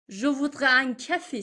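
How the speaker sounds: teacher models it slowly for the class; slow careful demo. Shown as a demonstration. Teacher says it slowly for Persian learners.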